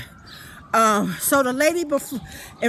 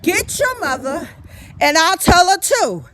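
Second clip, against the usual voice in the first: retold shout; 4 semitones higher, 4 dB louder than usual. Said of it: "my voice was loud".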